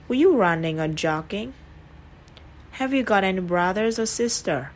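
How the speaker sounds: rising on the first choice, falling on the last; rise then fall. Shown as a demonstration. Teacher modelling choice questions, rise then fall. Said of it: "quy tắc ngữ điệu lên xuống".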